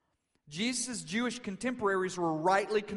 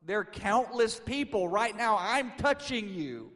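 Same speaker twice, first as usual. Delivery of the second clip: loud, higher-pitched incredulous protest; exasperated disciple; 6 semitones higher, 7 dB louder than usual. Retold or imitated. Peter answers Jesus in a crowd, exasperated. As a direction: imitate an exasperated friend pointing out the obvious. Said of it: "Harry Peter probably said".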